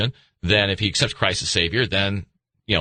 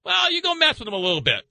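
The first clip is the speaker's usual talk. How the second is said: voicing God; 8 semitones higher than usual. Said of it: "And he goes".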